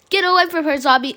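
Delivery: loud heroic order; a bold hero's cry; commanding shout. Acted. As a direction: shout the zombie off. Hero fights zombie.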